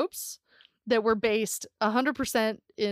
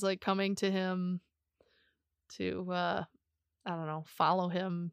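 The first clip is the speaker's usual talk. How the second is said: whisper; 3 semitones lower, 6 dB quieter than usual. Acted. Joking about chickens following husband.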